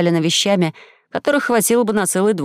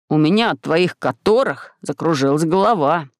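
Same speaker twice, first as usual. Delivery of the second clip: dizzy Gumgam; 3 semitones lower than usual. Acted.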